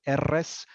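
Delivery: R'S said with a trilled Spanish R; rolled R's. Shown as a demonstration. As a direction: roll the R in R'S. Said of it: "roll those R's".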